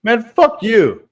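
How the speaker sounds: high, slow, drawn-out insult; hostile friend. Retold or imitated. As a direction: imitate a guy cursing you off. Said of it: "His black friend goes".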